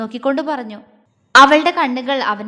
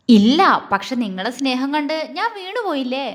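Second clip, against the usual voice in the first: playful teasing, louder on the first word; mischievous; 4 dB louder than usual. Acted. Jwala cheekily teases her husband Agni, playful. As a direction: tease him with a cheeky answer. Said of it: "കുറുമ്പോടെ പറഞ്ഞു".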